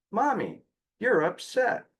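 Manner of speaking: put-on high, childlike quote of the son; child's voice. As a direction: voice the little boy gently. Child voiced in mom's story.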